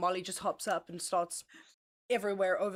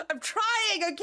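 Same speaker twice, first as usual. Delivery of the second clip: laughing protest; 10 semitones higher than usual. Real, not acted. Protesting after being laughed at.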